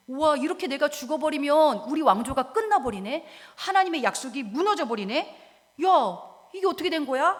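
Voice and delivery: mildly agitated, disbelieving lament; dismayed. Acted. Preacher voicing the king with no heir, dismayed.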